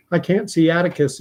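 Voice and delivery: put-on a small girl anxious for her father; worried little girl. Scout calling worried for her dad.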